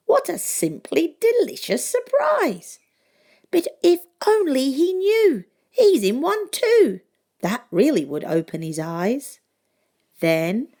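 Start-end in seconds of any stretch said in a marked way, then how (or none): 0.1-9.4 put-on high, loud, far-off boy voice; Gingerbread Boy voice. A narrator's reading. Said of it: "says the Gingerbread Boy".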